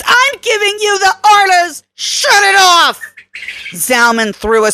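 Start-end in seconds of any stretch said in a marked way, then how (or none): 0.0-3.0 higher, forceful order, last words slowed; commanding shout. A narrator's reading. Kelly ordering Zalman to cut the fence power, angry. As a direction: bark it out and leave no room.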